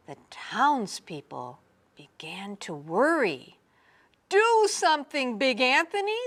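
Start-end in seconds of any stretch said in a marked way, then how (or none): 4.3-6.2 high, loud pleading shout; frightened crowd calling out. A narrator's reading. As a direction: townspeople crying out for help. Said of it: "they shouted".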